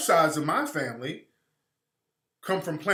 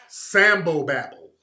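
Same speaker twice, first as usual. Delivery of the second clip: louder and slow, spitting the phrase out; brand it with contempt, slowly; scornful, punched out; 2 semitones lower, 5 dB louder, slower than usual. Real, not acted. To his live viewers, naming the trolls' argument: loud, slow scorn. Scornful label repeated for effect.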